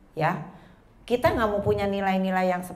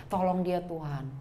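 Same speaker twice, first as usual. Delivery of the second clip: softer, halting mock prayer; confused prayer; 5 dB quieter than usual. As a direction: pray as if your mind went blank. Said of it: "mau ngomong apa lagi bingung".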